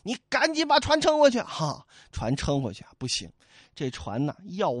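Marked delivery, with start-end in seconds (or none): 0.0-1.4 higher, urgent pleading; panicked Li Kui. Acted. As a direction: beg him to go back. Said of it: "口里道". (李逵慌张央求)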